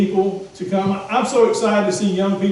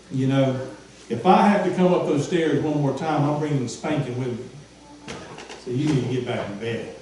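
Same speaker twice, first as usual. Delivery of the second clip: stern father; 5 semitones lower than usual. Retold or imitated. Preacher voicing a fed-up father warning his kids. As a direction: lay down the law like a tired dad.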